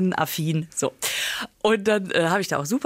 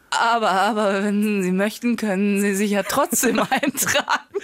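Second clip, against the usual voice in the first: pitiful; slower than usual. Retold or imitated. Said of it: "so ganz kläglich gesagt".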